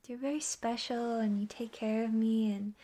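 usual speaking voice

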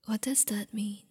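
ordinary talk

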